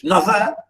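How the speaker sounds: Neither said as NUTHER, rising; Neither as rustic "nuther"; dialect "nuther". Shown as a demonstration. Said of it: "this is a very funny English".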